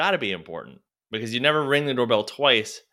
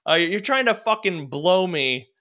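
mock sarcastic retort; 7 semitones higher than usual. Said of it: "where it's just like".

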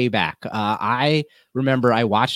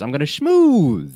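laughing mock schmooze; 4 semitones higher, slower than usual. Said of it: "you say it with your shoulders".

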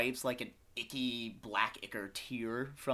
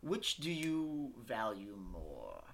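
slow sinister captor; much slower than usual. Acted. GM voices captor offering choice.

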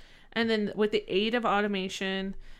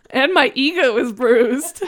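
mock hurt; 4 semitones higher, 10 dB louder than usual.

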